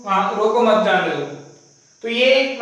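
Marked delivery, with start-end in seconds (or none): 0.4-1.2 रोको मत जाने दो read straight through with no break; run together without pause. Shown as a demonstration. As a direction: say रोको मत जाने दो as one unbroken string. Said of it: "इसी गति में पढ़ देते हैं". (रोको मत जाने दो बिना रुके, एक साँस में)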